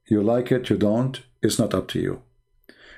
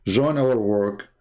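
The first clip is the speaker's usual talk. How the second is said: slow, each word weighted; slow emphatic appeal; slower than usual. Real, not acted. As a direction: press the phrase slowly and firmly. Repeating the appeal.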